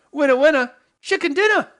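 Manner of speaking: high, loud, put-on shout of triumph; silly victory voice. Host crowing over a working chip, put-on voice. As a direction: squeal it high like a cartoon game-show host. Gleeful catchphrase after success.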